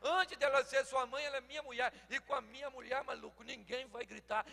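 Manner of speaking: father warning son loudly; loud on purpose. Retold or imitated. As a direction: speak up so the wife hears. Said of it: "E falei alto que é pra ela escutar".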